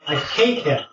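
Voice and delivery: hatred held at a near-normal pitch; contained hatred. Acted. Giant bird names its enemy to visitors, contained hatred. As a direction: say it firmly, before the outburst. Bird's hate builds through repeats.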